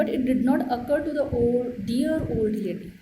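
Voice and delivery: slow, word-by-word reading aloud to a class; careful classroom dictation. Acted. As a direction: read it out slowly so pupils can follow. Teacher reads English text aloud.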